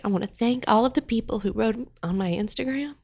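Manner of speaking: real tears held back, softening as it goes; crying through thanks. Real, not acted. Thanking listeners after losing her dog, tearful. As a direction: thank them while trying not to cry. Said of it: "I cried through that part".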